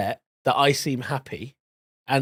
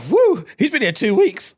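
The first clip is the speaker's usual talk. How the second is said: Asian uncle; 10 semitones higher, 5 dB louder than usual. Retold or imitated. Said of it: "This guy is like".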